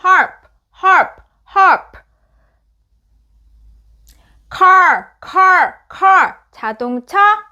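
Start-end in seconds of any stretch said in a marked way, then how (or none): 0.0-2.0 "harp" with the P just a light release of the lips; light final P. Shown as a demonstration. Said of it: "푸는 살짝만 입을 댔다가 떼지. 하프 아니에요".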